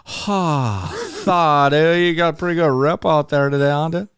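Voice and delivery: hammed-up beach bro greeting; surfer voice. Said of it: "you're talking like that, you're in".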